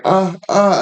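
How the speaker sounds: imitated high-pitched startled "uh, uh"; two short high cries mimicking girlfriend. Retold panic while being puked on.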